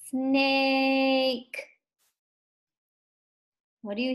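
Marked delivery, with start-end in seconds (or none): 0.1-1.6 SNAKE with a long level A; said slowly. Shown as a demonstration. Teacher leading pupils to say it, SNAKE said slowly. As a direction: stretch out the middle of SNAKE. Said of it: "Let's say it slowly".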